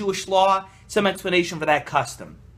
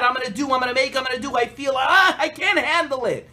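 high, hammed-up frantic outburst with a laugh; worked-up rant; 6 semitones higher than usual. Rabbi mocks a worked-up man who never acts, higher and hammed-up. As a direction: mimic an overwrought man all talk and no action. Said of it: "he's so worked up".

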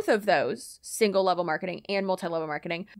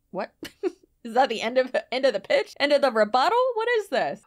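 baffled disbelief; 4 semitones higher, faster than usual. Real, not acted. Mocking the abrupt script.

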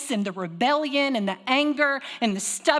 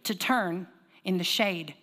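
slow, deliberate repeat; 3 semitones lower than usual. Shown as a demonstration. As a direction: drag out "to turn in the shade" slowly. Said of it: "one more time too".

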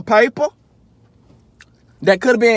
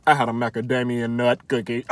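mock posh brag; 10 semitones lower, 7 dB quieter than usual.

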